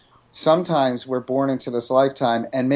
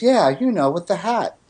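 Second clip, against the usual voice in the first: imitating little son; 6 semitones higher than usual. Toddler son voiced in story.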